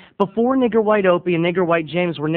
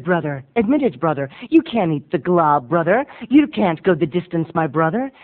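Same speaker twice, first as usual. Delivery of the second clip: sermonize at him like a revival preacher; a hint of a pulpit preacher; preachy brother.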